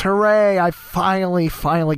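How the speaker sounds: a happy little cheer. Real, not acted. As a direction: celebrate finally getting past it. Celebrating reaching the 32 minute mark.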